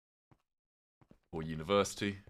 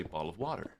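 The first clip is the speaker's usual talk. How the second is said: American accent; 3 dB quieter than usual. Shown as a demonstration. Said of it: "American would say".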